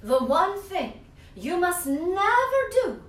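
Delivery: put-on high, loud, slow old witch voice calling Anthony; Strega Nonna calling. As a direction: call his name like a grandma witch, stretched and loud. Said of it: "said Strega Nonna".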